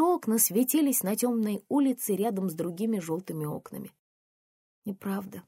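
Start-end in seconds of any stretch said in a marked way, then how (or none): 4.8-5.4 soft lifeless denial. Acted. Daughter answering her mother in a lifeless voice. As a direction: say it drained of all feeling. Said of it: "сказала я безжизненным голосом".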